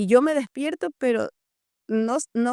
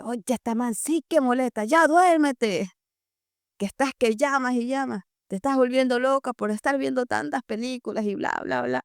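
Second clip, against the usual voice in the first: angry dad; 3 semitones higher than usual. Retold or imitated.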